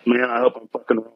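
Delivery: breaking up, signal dropping out; muted words. Real, not acted. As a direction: voice cut off on a bad connection. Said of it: "Cut out again".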